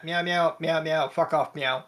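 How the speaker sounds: meowing at the cat like a threat; nervous cat voice. Pretend. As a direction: hiss it out as a cat. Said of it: "let me say that in cat".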